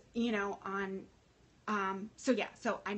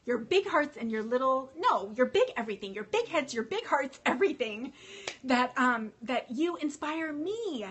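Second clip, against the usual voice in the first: louder and higher, excited praise; gushing; 3 semitones higher, 5 dB louder than usual. Real, not acted. Telling her viewers how big their hearts are, gushing. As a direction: pour it on, building the praise.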